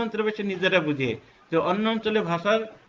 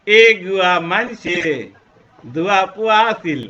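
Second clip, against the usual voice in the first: Chittagong dialect; 7 dB louder than usual. Shown as a demonstration. Teacher loudly demonstrating Chittagonian speech. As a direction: belt it out like a Chittagong local. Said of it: "চট্টগ্রামে যদি যাই".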